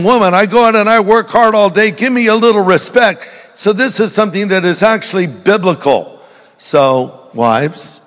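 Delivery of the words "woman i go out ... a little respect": a hint of a demanding husband, pitched higher; lightly voiced man pleading for respect after work. Man to his woman, asking respect, lightly voiced. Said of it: "So he's saying".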